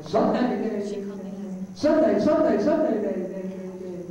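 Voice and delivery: Sunday with quick stuttered repeats of day, trailing away; slapback echo. Shown as a demonstration. Showing the crowd the old slapback echo, stuttered repeats. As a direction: chop the word into slapback repeats. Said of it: "He could make it so it sounded like".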